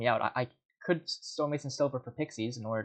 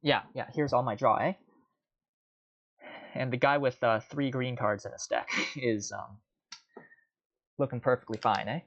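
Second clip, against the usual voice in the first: salty. Real, not acted. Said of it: "Sorry if I sound a bit salty".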